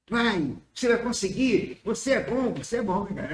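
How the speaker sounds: mild, supportive pep talk; encouraging. Acted. Speaker demonstrating uplifting intonation to someone, mildly encouraging. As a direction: cheer them on without raising the voice. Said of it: "A entonação pode ser de exaltação, anima".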